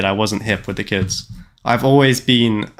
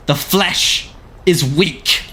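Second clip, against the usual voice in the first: slow, higher, ominous recital ending in a whisper; hammed-up grim pronouncement; dramatic flesh-is-weak line; 3 semitones higher, much slower than usual. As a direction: intone it slowly like a cold machine zealot. Quoting a dramatic machine line.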